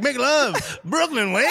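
high-pitched hammed-up Mexican accent; mock Mexican accent. Host reimagining the fan as Mexican, mock Mexican accent. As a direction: do an exaggerated, excited Mexican voice. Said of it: "Or he's Mexican".

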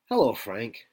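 lightly voiced computer assistant; HAL-like computer voice. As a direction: greet him as a mild computer voice. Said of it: "sounds kinda like the computer".

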